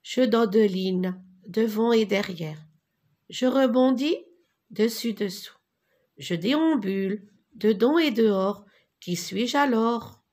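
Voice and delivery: lilting singsong chant of a rhyme, a bit brighter; rhythmic recitation. Shown as a demonstration. Teacher leading the class, reciting the rhyme together. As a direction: recite it so the class can repeat. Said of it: "Je répète et répétez avec moi".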